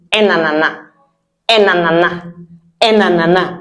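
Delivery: Un ananas with un said like en; the relaxed everyday Un ananas; Un ananas, colloquial; casual variant. Shown as a demonstration. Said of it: "And sometimes they simply say".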